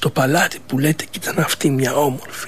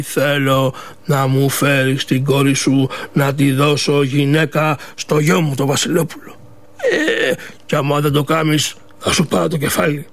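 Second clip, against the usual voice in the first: stern king; 3 semitones lower than usual. Acted. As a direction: threaten him like a king would, from his throne. King gives his orders.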